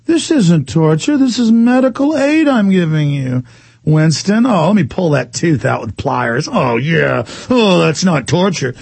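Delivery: hint of a sinister interrogator, pitch sinking midway; O'Brien. Host playing the torturer with Winston, lightly menacing. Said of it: "exactly what O'Brien would say".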